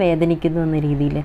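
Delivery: normal talking voice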